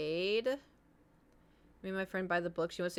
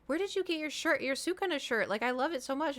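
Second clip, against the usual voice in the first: lightly voiced admirer, pitched higher; imitated gushing girl; 6 semitones higher than usual. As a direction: gush a little, higher than usual. Acting out girl at the gym.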